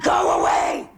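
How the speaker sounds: high, hammed-up yell; overdone shout. Shown as a demonstration. Teacher showing the class what not to be, exaggerated shout. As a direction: yell it as an exaggerated bad example. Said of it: "You are not this".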